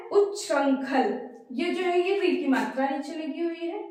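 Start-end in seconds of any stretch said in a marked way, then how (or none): 0.1-1.2 उच्छृंखल spoken slowly, with the doubled च्छ clearly sounded; careful pronunciation. Shown as a demonstration. Teacher carefully models a tricky word for the class. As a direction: say उच्छृंखल slowly, sounding उच् then छृं. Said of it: "लेकिन क्या है".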